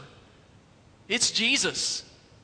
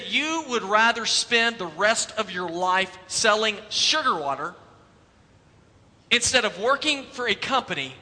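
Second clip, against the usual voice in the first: exasperated challenge. Retold or imitated. Jobs pressing Sculley on the phone, mock exasperated. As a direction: lean on him, half-hearted fed-up push. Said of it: "he's totally exasperated".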